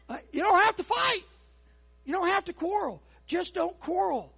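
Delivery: loud, high preaching, building and punching; fired-up sermon delivery; full-force preaching. Acted. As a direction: preach it out to the whole room.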